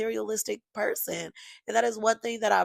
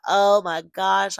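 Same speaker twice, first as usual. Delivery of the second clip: overwhelmed; 6 dB louder, much slower than usual. Retold or imitated. Overwhelmed at the proposal.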